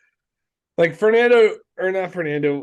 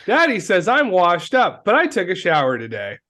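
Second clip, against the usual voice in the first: Ralphie voice; 3 semitones higher than usual. Retold or imitated. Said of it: "he's like Ralphie from The Simpsons".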